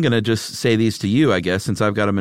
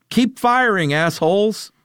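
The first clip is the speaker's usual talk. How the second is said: action hero shout; 11 semitones higher, slower than usual. Acted. Reads haiku as a movie hero.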